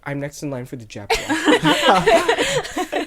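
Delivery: put-on high, slow, bragging kid voice; proud kid boast. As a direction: brag it like a proud child. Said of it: "I was like".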